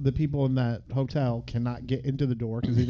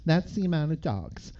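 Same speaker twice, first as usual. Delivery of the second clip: imitating Elle; 4 semitones higher than usual. Acting Elle reciting facts to Hauser.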